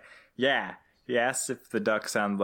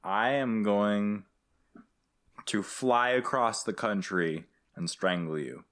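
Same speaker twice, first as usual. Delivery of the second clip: mock threat.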